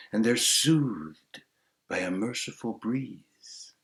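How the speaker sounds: slow, measured storyteller's verse; verse recitation. A narrator's reading. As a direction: recite it with lingering pauses. Recites an opening verse tale.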